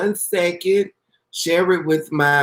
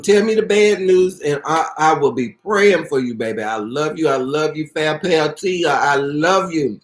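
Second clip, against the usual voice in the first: tender reassurance. Real, not acted. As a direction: comfort her gently. Comforting a viewer with bad news.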